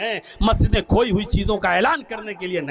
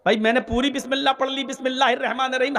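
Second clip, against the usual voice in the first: full basmala, rushed; faster than usual. Shown as a demonstration. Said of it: "और दलील ये दें कि हर्ज क्या है?".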